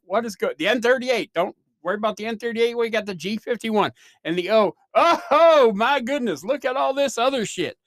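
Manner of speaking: hammed-up auctioneer patter, rising to a loud, high oh my goodness; mock bingo caller getting worked up over the codes; imitating the neurologist like an excited auctioneer. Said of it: "That's how he sounded".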